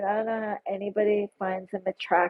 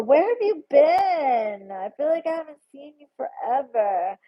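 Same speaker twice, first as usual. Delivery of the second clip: close to tears; 6 semitones higher than usual. Real, not acted. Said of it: "you're gonna make me cry".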